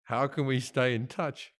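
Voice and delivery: a hint of an unhurried movie star; Warren Beatty. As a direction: ask slowly and quietly. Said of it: "Warren Beatty goes".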